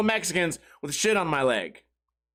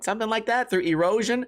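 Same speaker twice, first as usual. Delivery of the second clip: normal talking voice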